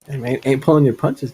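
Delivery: normal talking voice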